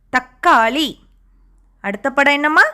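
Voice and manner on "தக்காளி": "தக்காளி" split at a held k; doubled consonant demo. Shown as a demonstration. Teacher asking children to listen for the sound, split-word demo. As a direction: stop on the க் in "தக்காளி", then release காளி. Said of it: "இக் சத்தம் கேக்குதான்னு பாருங்க".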